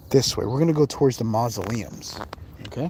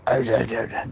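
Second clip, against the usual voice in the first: RFK voice; 3 semitones lower than usual. Retold or imitated. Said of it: "that's how, like, I, I was talking".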